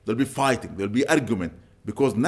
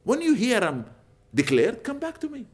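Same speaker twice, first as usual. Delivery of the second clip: softened, kindly instruction; gentle telling; 9 semitones higher than usual. Retold or imitated. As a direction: tell him gently, lifting the voice.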